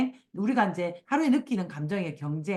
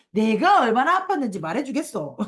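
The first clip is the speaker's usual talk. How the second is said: louder, hammed-up declaration; mock boastful challenge; 6 dB louder than usual. One sufferer out-doing another, mock boastful challenge. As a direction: take up the challenge with mock indignation. Acts out rivalry over who hurts more.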